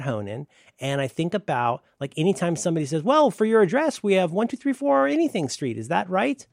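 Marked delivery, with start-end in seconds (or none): 3.0-6.4 higher, bright clerk voice; higher mock clerk. Imitating any clerk who reads his address back to him, higher.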